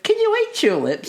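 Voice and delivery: mocking the unnatural gantry line; stilted TV line. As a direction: read it like a wooden contestant. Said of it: "sounded so unnatural".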